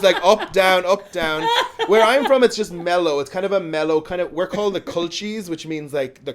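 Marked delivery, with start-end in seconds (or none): 0.2-1.5 UP, DOWN, UP, DOWN bounced loudly in singsong; "up" lifted, "down" dropped, louder than usual; up-and-down lilt. Shown as a demonstration. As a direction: demonstrate the lilt on "up, down, up, down". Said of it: "They gotta go up and down".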